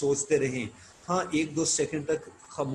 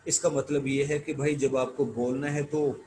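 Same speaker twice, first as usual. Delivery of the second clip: ordinary talk, nothing marked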